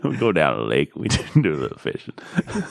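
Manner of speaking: low Southern country voice, breaking into laughs; folksy Southern accent with a chuckle; put-on Southern fisherman voice. Continues country fishing bit.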